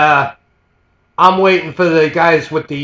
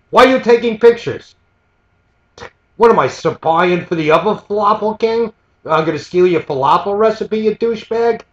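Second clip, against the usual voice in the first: higher, accusing retold rant; imitating a mad vendor; 4 semitones higher than usual. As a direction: throw the accusation like the furious shop owner. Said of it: "this unibrow is getting mad".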